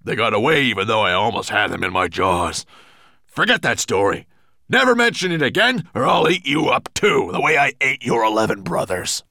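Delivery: loud, forceful monster voice; bullying roar; threatening growl. A narrator's reading. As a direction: menace your servant into silence. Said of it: "growled Nettlebrand".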